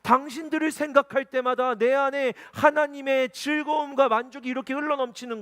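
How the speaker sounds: high, loud preaching at full force; impassioned preaching. Acted. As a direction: preach with swelling fervor.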